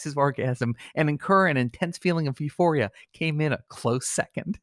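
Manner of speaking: grave announcer voice fighting off laughter; mock-solemn obituary read. Host reads an absurd obituary, trying to stay solemn. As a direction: keep it dignified while the giggles break through.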